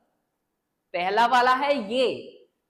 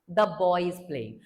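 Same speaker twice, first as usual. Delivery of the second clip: slow modelled repeat; 6 semitones lower, much slower than usual. Shown as a demonstration. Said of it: "हम बोलेंगे".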